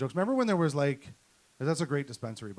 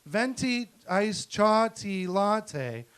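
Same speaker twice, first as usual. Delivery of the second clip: wife voice; 4 semitones higher, 6 dB louder, much slower than usual. Retold or imitated. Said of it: "and then she was like".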